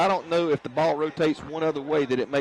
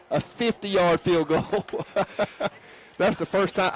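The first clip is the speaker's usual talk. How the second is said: excited; 5 semitones higher, slower than usual. Real, not acted. Replaying the kick, amazed.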